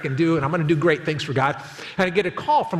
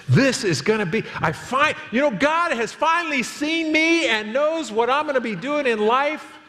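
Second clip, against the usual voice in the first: giddy excitement; 5 semitones higher than usual. Retold or imitated. Young pastor imagining preaching to nation.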